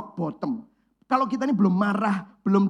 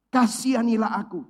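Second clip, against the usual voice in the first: pleading cry; 3 semitones higher, 5 dB louder than usual. Retold or imitated. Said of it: "teriak dengan segenap tenaga".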